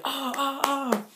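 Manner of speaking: high, drawn-out knowing "ah"; a high teasing ooh from the crowd; delighted crowd gasp. Retold or imitated. Crowd reacting to his romantic song choice, high and teasing.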